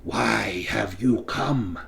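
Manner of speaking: put-on slow, hissing wraith with an odd accent; hissing voice with strange accent. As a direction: hiss it out slowly in a foreign lilt. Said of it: "speaking in a hissing voice and a strange accent".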